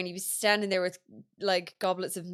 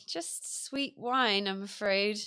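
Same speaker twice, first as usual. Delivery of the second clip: mock apologetic servant; slower than usual. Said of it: "And you'd be like".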